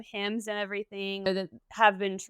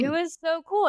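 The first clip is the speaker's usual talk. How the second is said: excited; 9 semitones higher, 4 dB louder than usual. Real, not acted. Echoing excitedly about underground meal.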